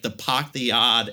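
imitating a New England mother-in-law's accent. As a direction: drop the R's, lightly mimicked New England style. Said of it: "my mother-in-law, like, she really does".

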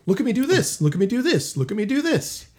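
high, smug showing-off voice. Retold or imitated. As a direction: act like a guitarist showing off.

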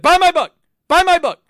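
loud, high, pushy shout; obnoxious shouting. Retold or imitated. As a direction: yell it like an annoying salesman. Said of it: "I'm gonna be like".

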